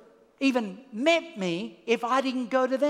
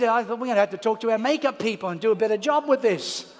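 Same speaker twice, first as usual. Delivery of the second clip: laughing. Real, not acted.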